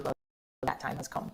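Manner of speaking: grave unvoiced whisper of bad news; ominous whisper. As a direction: whisper it like a doctor's verdict. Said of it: "And he goes".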